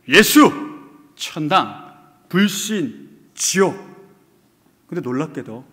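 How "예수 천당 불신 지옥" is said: loud street-preaching cries; shouting on the street. Retold or imitated. Street evangelist crying out to the crowd, loud shouted words. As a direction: call each word out to passersby. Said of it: "크게 외칩니다".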